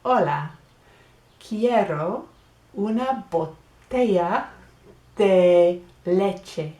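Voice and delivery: teacher voices both sides of a shop dialogue; market role-play. Acted. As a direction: act out buying milk at the market. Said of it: "We'll have this as one person".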